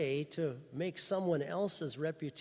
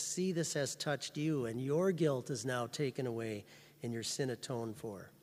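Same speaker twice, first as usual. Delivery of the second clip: softer, quiet, reassuring; soft personal assurance; 3 semitones lower than usual. Retold or imitated. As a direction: tell it gently to each listener. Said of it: "He says".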